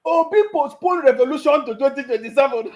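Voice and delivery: headline read through laughter; laughing. Real, not acted. Laughing while repeating headline.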